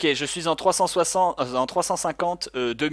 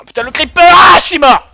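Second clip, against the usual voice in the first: shrieking in panic, much higher and louder; panicked scream; 19 dB louder than usual. Real, not acted. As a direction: scream as the creeper blows. Killed by a creeper. (cri de panique)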